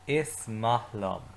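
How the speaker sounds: slow, clear repeat for the class; slow repeat-after-me. Shown as a demonstration. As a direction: lead the class slowly through it. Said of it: "say it with me".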